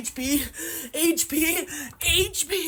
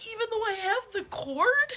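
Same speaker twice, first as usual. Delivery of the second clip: crying; 3 semitones higher than usual. Real, not acted. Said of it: "I may be crying right now".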